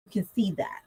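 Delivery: whisper. Real, not acted. Whispered aside.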